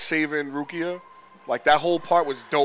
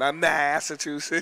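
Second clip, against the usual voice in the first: exaggerated Boston accent; slower than usual. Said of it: "you're just over-exaggerating now".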